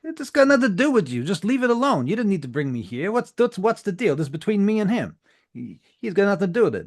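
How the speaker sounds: very high, loud, fast pleading; panicked protest. Acted. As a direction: rush it out defensively.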